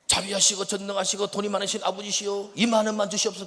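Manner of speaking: loud, grandly recited petition to father; mock formal prayer. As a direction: plead with dad in booming prayer style. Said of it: "형제 아버지 앞에 가서".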